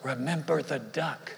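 whisper. Retold or imitated.

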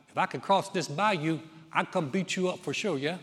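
Boudreaux's light Cajun taunt, ending on yeah; understated Cajun accent. Acted. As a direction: Boudreaux yelling back in a mild Cajun accent. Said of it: "excuse my Cajun accent".

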